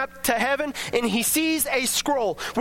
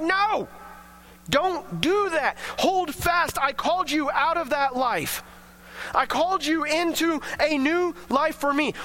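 higher, pleading voice of God, no; urgent voice of God; 5 semitones higher than usual. Acted. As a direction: urge them to hold on, pleading. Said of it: "And God's like".

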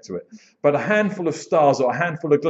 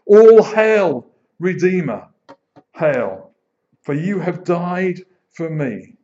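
proclaimed; 2 semitones higher, 6 dB louder, slower than usual. Shown as a demonstration. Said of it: "declaiming the hymn".

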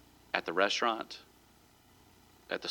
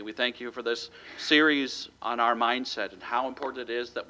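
closing prayer. Acted. Pastor prays over congregation at sermon's end, hushed and earnest.

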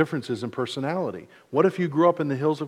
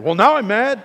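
mock mad; 9 semitones higher, 8 dB louder than usual. Acted argument with his kids.

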